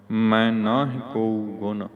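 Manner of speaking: emphatic slow model reading of ਮੈਂ; nasal ਮੈਂ. Shown as a demonstration. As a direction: read ਮੈਂ as nasal "main", firmly. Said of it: "ਮੈਂ ਉੱਤਮ ਪੁਰਖ ਪੜ੍ਹਨਾਮ ਮੈਂ".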